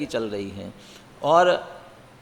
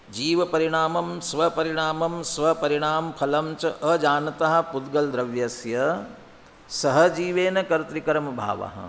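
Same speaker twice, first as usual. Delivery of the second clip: slow recitation, a pause between "द्रव्यस्य" and "सहजीवेन"; pause before सहजीवेन; slower than usual. Shown as a demonstration. Teacher reading to show phrasing, slow recital pausing before "सहजीवेन". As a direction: run the phrases together slowly, then break before "सहजीवेन". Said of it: "यहाँ मैं पढ़ रहा हूँ, क्या फर्क पड़ेगा?".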